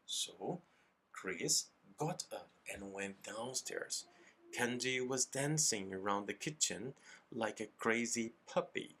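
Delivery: slow, measured reading for learners; story narration. A narrator's reading. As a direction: read the story slowly for students to copy. Reads the story aloud for imitation. (leitura pausada de história para alunos)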